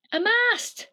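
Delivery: high happy shout; delighted cry. Acted. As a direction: shout it like a dad who found a treasure. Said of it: "yells the dad".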